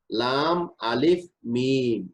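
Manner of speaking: লাম, আলিফ, মিম named slowly one by one; slow letter spelling; teacher spelling letter names; spelled-out letters. Shown as a demonstration. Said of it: "লাম বলতে গেলে".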